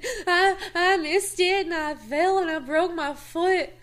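high, loud, giggling through the confession; retold confession breaking into giggles; laughing confession. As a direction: laugh while owning up to the fib. Confessing the fake injury, laughing.

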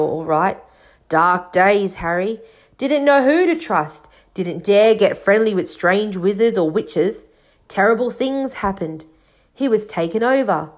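lightly voiced rustic storyteller; a hint of a folksy giant, uneasy; Hagrid. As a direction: tell dark history in a homely dialect. Voices Hagrid telling the history.

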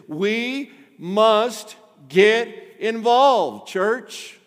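slow, loud, drawn-out preacher's plea; fervent call. Real, not acted. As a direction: lean hard into INVOLVED like a rallying cry. Preacher urges the church.

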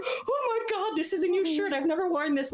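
high laughing mock whine about a shirt; mocking a singer. Imitating a singer upset about his torn new shirt, high mock whine. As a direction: squeal it like a man mortified, laughing through it.

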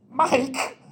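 loud, high call across the pool; shouted name. Retold or imitated. Swimmer loudly calling his buddy by the pool, urgent shout. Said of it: "he walks by and goes".

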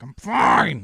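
loud, high, strained outburst; forced insistence. Retold or imitated. Stressed driver lying to himself, yelled denial. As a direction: yell it to convince yourself. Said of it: "lying to myself".

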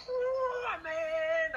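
sudden high-pitched whoop of amen; shouted amen. Retold or imitated. Churchgoer shouting amen at the wrong moment, high excited yell. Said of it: "así bien fuerte atrás".

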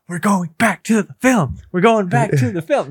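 high, put-on insistent voice; mock announcement. Steering co-host back to the film, high mock insistence. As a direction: pipe it up high and sing-song. Acting out calling podcast to order.

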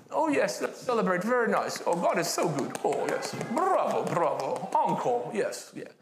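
a hint of a polite restrained cheer; mock the timid British applause; understated prim approval; reserved Brit. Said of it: "As Brits, we're so reserved".

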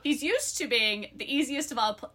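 lively book-blurb read-aloud. Acted. Co-host reads friends the book blurb, lively read-aloud.

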